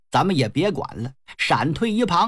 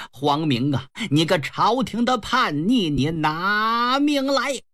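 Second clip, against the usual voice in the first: put-on angry old man. Old general accuses his son's friends of stirring revolt, angry. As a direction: rebuke them as a wronged old father, stretching the final threat. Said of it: "老头可气坏了".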